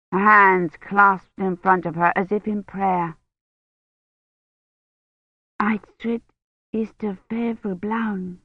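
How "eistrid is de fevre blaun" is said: put-on soft young woman's line. A narrator's reading. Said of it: "the young woman said".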